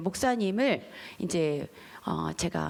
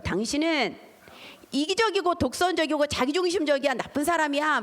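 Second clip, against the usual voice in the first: jab each word at him; accusing; 5 semitones higher than usual. Retold or imitated. Wife accusing her husband of being selfish, higher and sharp.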